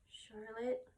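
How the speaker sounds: soft, hushed call; softly. Acted. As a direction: call her name softly. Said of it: "he said softly".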